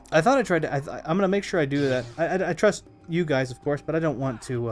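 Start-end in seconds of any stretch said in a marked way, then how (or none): 3.5-4.7 talking through hiccups; speaking with hiccups. Real, not acted. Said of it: "excuse me, I have the hiccups".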